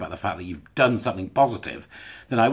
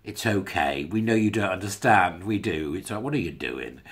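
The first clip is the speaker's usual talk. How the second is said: mild mock reassurance with a head pat; patronising comfort; 3 semitones lower than usual. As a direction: soothe them like a slow child. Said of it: "pat them on the head and go".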